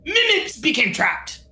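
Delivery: excitable little merchant creature, pitch swooping up; Mimips. Acted. Little merchant welcoming unexpected visitors, creature voice. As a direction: greet visitors in a perky goblin-like voice.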